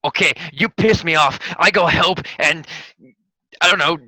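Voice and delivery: mock NPC quote. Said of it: "you'd be like".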